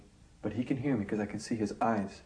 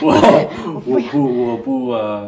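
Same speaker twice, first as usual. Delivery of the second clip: loud, urgent plea to the police; earnest plea; 2 semitones higher, 15 dB louder, slower than usual. Retold or imitated. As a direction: push the words out, almost shouting. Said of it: "speaking to Chinese police".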